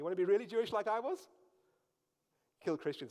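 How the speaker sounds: fast, loud, sarcastic and mocking delivery.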